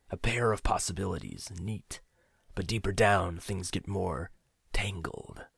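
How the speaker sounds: put-on an old man sharing a dark secret; lightly voiced older friend. Aged friend's knowing speech.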